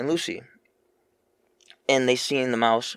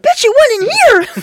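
high, loud yell; shout; 12 dB louder, slower than usual. Retold or imitated. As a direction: yell it out from across the room. Yelling at cat in retold scene.

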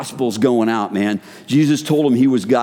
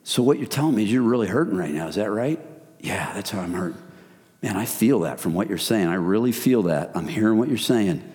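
soft, understanding reply; gentle empathetic listening; 2 semitones lower, 4 dB quieter than usual. Shown as a demonstration. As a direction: speak softly, like a caring friend.

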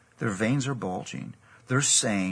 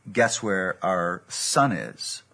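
sarcastic; 2 semitones lower, 5 dB louder, much slower than usual. Retold or imitated. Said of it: "just the sarcasm and anger dripping off me".

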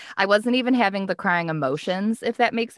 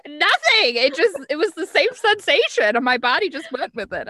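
high, mock tearful wail; retold sobbing; 9 semitones higher, 4 dB louder than usual. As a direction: wail the excuse as if mid-sob. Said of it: "I just started sobbing".

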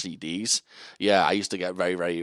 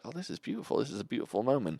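dreamy awe; 3 semitones higher, 8 dB quieter, faster than usual. Retold or imitated. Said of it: "I was just like".

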